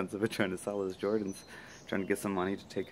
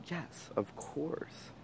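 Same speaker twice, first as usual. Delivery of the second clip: unhesitating assurance; 9 semitones higher, 8 dB quieter, much slower than usual. Retold or imitated. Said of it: "without hesitation, I said".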